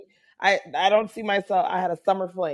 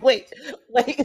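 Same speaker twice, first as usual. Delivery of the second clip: laughing; 4 semitones higher than usual. Real, not acted. Interrupting while laughing.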